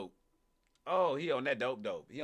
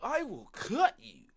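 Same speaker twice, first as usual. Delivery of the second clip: slow, higher-pitched mock threat like a game NPC; 9 semitones higher, 5 dB louder, slower than usual. Streamer mimicking the suspect's threat, mock NPC voice. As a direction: mimic the suspect like a stiff game character, loudly. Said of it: "He sound like an N P C".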